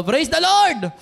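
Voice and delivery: imitating an on-fire believer's shout; retold praise shout. On-fire Christian standing up in church, retold shout.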